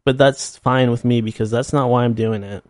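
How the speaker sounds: ordinary talk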